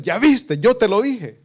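loud high I-told-you-so; parent's told-you-so. Retold or imitated. Parents scolding a child who made a mistake, loud told-you-so. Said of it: "por lo general los padres".

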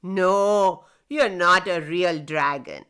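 jeering. Acted. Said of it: "The children jeered".

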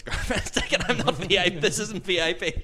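high, loud insistence; mock-panicked denial; flustered protest. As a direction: blurt it out, embarrassed. Retelling protest to a couple, laughing.

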